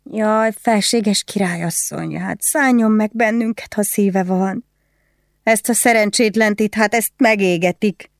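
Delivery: high, wailing plea for mercy; pleading woman prisoner. Acted.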